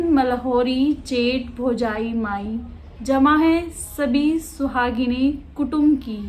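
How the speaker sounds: slow, measured poem reading; deliberate, phrase-by-phrase verse; poetry recitation. Acted. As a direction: recite the verse slowly, pausing between lines. Reads the poem aloud.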